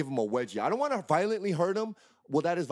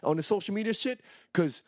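angry warning; 3 semitones higher than usual. Real, not acted. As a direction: warn him off, heated and pitched up. Warning the troll on air.

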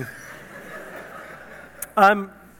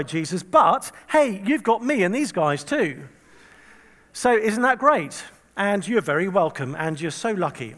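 smug Peter; 3 semitones higher, 4 dB louder than usual. Retold or imitated. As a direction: play Peter boasting to Jesus, all self-congratulation. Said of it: "talk about how amazing he is".

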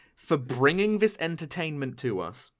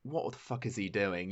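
low, hushed judgemental aside; baffled onlookers; 7 semitones lower, 8 dB quieter than usual. Acted. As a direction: murmur it like a bemused onlooker. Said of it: "people are gonna look at you like".

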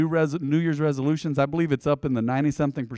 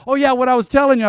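imitating brother; 8 semitones higher, 6 dB louder, faster than usual. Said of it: "He goes".

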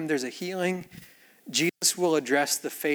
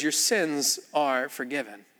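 calm slow repeat; 3 semitones lower, 4 dB quieter, slower than usual. Retold or imitated. Jesus repeats calmly.

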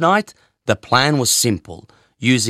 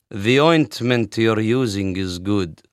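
breezy; 3 semitones lower than usual. Retold or imitated. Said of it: "he said breezily".

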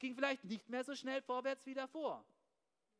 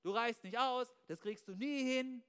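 voice of negative thoughts. Retold or imitated. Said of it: "schlechte Gedanken einnisten".

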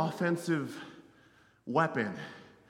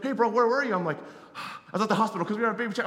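excited; 4 semitones higher, 4 dB louder, faster than usual. Retold or imitated. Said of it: "I'm so excited".

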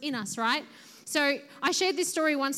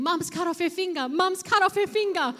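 mock panicked yell, raised pitch, building louder; imitated screaming; 5 semitones higher, 4 dB louder than usual. Sister bursting in about mum's finger, mock screaming. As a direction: imitate a sister raising the alarm, higher voice. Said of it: "she starts screaming".

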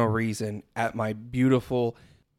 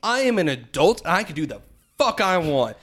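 ranting; 4 semitones higher, 4 dB louder than usual. Retold or imitated. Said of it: "I'm ranting and raving in this car".

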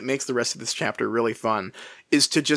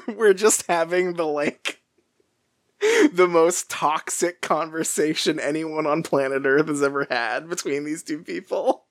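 laughing mock commentary; 3 semitones higher than usual. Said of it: "Or I was like".

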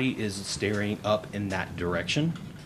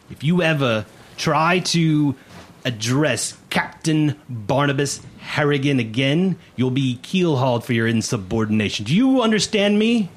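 stern officer dressing down a recruit; menacing first mate; 4 semitones higher, 6 dB louder than usual. Acted. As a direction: spell out the warning, rising to a shout. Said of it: "Mister Plug stares directly at you".

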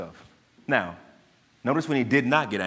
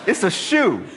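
laughing through the words; a laughing, incredulous punchline; 6 semitones higher, 4 dB louder than usual. Real, not acted. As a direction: chuckle it out, amused at the absurdity. Laughing at his own story.

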